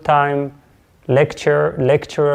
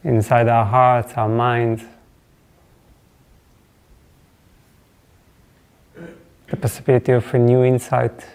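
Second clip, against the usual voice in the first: reflective opening blessing; 2 semitones lower than usual. Real, not acted. Teacher blessing the silence before class, reflective and unhurried.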